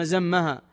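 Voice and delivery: "زمها" with a clear z and doubled m; teacher spelling out "زمها" with z; with the letter zay. Shown as a demonstration. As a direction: say "زمها" starting on a z sound. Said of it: "بالزاي".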